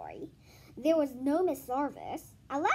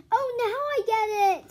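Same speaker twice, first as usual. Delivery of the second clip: higher, louder aha; realization; 9 semitones higher, 9 dB louder than usual. Acted. Joe to teacher, sudden realization. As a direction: let it dawn on you.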